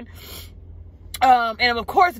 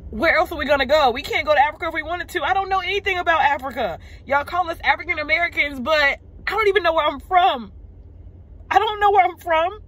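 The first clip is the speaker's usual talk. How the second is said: rising anguish; 5 semitones higher than usual. Real, not acted. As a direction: pour out the hurt as it builds. Rising despair over where to go.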